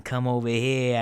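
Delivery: mock Italian-American beckoning; Italian impression. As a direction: call them over in an Italian-American accent. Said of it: "That's why I went into my Italian impression".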